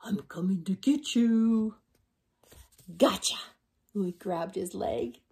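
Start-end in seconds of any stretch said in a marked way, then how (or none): 0.0-1.8 slow creepy whisper; spooky whisper. Acted. Dog skeleton whispers to scare the others, slow. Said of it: "He said". 3.0-3.4 louder sudden pounce; spring out and grab them; gotcha. Acted. Dog skeleton pounces on the others, louder.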